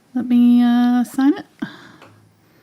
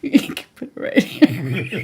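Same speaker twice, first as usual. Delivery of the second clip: slow words broken by laughter; real helpless laughing; laughing while talking; 3 semitones lower than usual. Real, not acted. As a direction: squeeze the sentence out through giggles. Laughing at the yelling joke.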